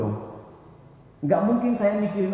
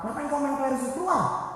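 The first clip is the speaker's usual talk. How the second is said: mock angry scolding; 8 semitones higher than usual. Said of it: "Yang ada pasti orang marah".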